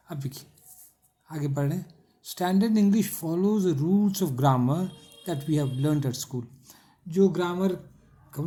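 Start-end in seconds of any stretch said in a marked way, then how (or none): 2.3-6.4 reads the English line very slowly for notes; slow dictation. Shown as a demonstration. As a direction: dictate each word slowly and clearly. Teacher dictating English text slowly.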